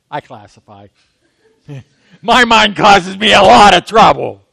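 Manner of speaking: chuckling confession of a troubled mind; laughing. Real, not acted. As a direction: laugh at yourself as you admit it. Laughing at his own joke.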